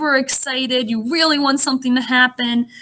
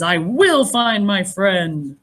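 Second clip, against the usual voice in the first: determined; 2 semitones lower, slower than usual. Acted. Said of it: "Look how determined he is".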